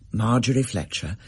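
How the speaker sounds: ordinary delivery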